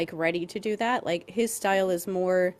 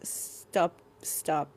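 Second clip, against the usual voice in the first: monotone; 3 semitones lower than usual. Retold or imitated. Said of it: "a monotone voice".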